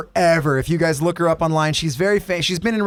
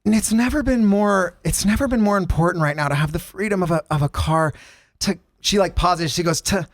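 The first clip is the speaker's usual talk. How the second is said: mock radio ad read. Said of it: "She has a line where she goes like this".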